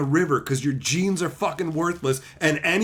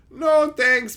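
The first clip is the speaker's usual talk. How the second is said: higher, firmer mock-polite refusal; firm brush-off; 5 semitones higher, 4 dB louder than usual. Waving off a kid as buddy, firm brush-off. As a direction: turn them down out loud.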